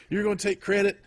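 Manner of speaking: bad Southern wrestler accent, hammed up; mock North Carolina accent. Cousin mocking a wrestler on a podcast, hammed-up North Carolina accent. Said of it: "he has a really bad North Carolina accent".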